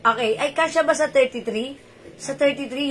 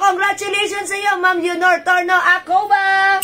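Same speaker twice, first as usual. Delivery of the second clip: excited shout; 5 semitones higher than usual. Real, not acted. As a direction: call out the lucky winner with delight. Winner drawn in live giveaway. (masiglang sigaw ng pagbati)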